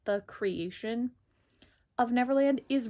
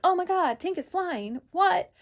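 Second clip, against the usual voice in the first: high, loud, shrieked disbelief; mock shock; 9 semitones higher, 6 dB louder than usual. Wendy in the limo seeing Tink fly, loud high shock. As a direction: gasp it out like she can't believe her eyes. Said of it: "looks out of the sunroof".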